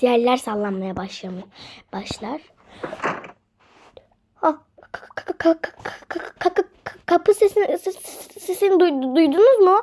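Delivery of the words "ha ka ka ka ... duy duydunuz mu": stammering in mock fright, stuck on each syllable; scared stutter. Friend panicking at the door noise, mock-scared stutter. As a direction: trip over the words like you're terrified.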